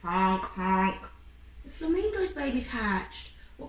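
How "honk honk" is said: honking. Acted. Flamingo chick hatches.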